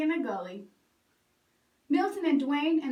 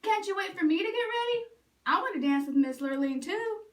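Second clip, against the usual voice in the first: higher, hopeful plea; Bubba asking; 5 semitones higher than usual. Acted. Bubba pleading to come to the ball, hopeful ask. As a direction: ask them to wait, hopeful. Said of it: "Bubba asked".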